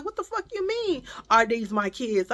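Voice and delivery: indignant retold challenge; retold cussing. Mother challenging a nosy stranger, mildly angry retelling. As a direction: cuss back in disbelief, acting it out. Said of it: "I began to start cussing".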